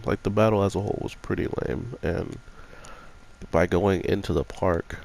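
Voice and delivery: talking around a cough drop; mouth full. Real, not acted. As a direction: speak with a lozenge in your mouth. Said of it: "I apologize if you hear anything in my mouth".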